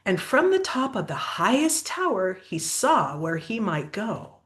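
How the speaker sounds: lively, sing-song storybook reading; picture-book story voice; reading to children. Acted. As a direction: read the rhyme aloud to a child. Reads picture book aloud.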